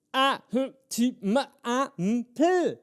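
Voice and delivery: mock too-busy clipped speech; chopped words. Shown as a demonstration. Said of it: "doing that with everything I say".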